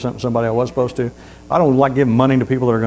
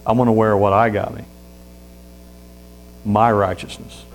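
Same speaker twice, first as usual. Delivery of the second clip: smug refusal; 5 semitones lower, 4 dB quieter than usual. Acted. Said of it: "And he goes".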